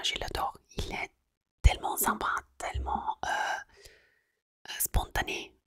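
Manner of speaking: Italian accent in French. Real, not acted. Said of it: "désolée, mon français".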